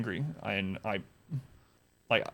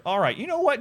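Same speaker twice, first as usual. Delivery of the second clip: fed-up; 10 semitones higher than usual. Retold or imitated. To the manager, a fed-up high burst. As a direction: throw up your hands in disgust. Giving up in the argument.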